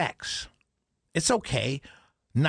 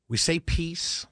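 whisper; slower than usual. Real, not acted. Sudden whispered aside.

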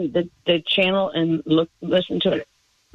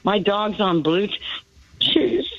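choked-up laughter; slower than usual. Real, not acted. Caller cracking up while telling what the dog's owner said, choked-up laughter. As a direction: laugh so it could pass for crying. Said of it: "Are you crying?".

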